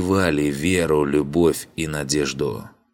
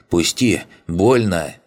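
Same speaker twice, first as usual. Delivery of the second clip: жалобно; 3 semitones higher, 4 dB louder, slower than usual. A narrator's reading. Узника душат, он просит.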